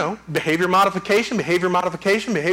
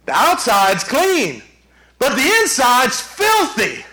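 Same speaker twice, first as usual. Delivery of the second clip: high, forceful sermon delivery; impassioned preaching; 8 semitones higher, 6 dB louder, slower than usual. Real, not acted. Pastor warning congregation against surface religion, preaching high and forcefully. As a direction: preach it out with full conviction.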